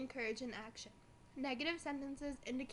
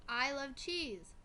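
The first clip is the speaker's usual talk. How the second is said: mock excited; 2 semitones higher, 3 dB louder, much slower than usual. Shown as a demonstration. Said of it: "This type of sentence shows strong feelings".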